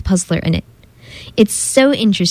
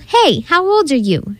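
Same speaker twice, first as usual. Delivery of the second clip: mock yell; 6 semitones higher than usual. A narrator's reading. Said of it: "Some kid yelled".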